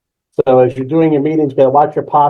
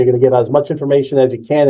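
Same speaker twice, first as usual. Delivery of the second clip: fast talking; 2 semitones lower, faster than usual. Shown as a demonstration. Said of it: "How fast you talk".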